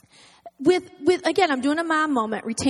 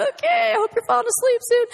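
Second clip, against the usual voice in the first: much higher, shouted, pleading okay; hopeful high plea; 8 semitones higher than usual. Retold or imitated. Mom rocking her heavy daughter, high shouted plea. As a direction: beg the child to sleep, pitched way up.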